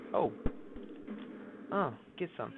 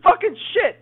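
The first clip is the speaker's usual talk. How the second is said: frustrated yelling; 13 semitones higher, 13 dB louder than usual. Real, not acted. Panicking in game.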